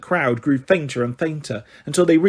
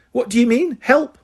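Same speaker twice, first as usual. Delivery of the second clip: high, strained indignant question; constricted voice; 8 semitones higher than usual. Acted. McGonagall questioning Umbridge, constricted. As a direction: choke back rage on help. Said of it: "in a constricted voice".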